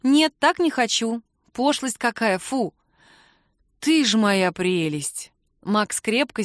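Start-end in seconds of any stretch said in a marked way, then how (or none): 0.0-2.7 higher, lightly voiced young woman, mildly disgusted; a playful little fu of distaste; Kira's voice. Kira rejects big wedding. 3.8-5.3 slow and affectionate; tender. Acted. Max tenderly hugs her.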